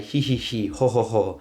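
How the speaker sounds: short "He, he, he, ho, ho, ho" in beats; laugh-like vowels. Shown as a demonstration. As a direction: bounce the vowels like a spelled-out laugh. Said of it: "just sort of think of the laughs".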